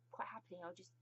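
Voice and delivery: hushed, giggly confession; whispered aside. Real, not acted. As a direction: whisper it like a guilty secret. Whispered aside about the Queen.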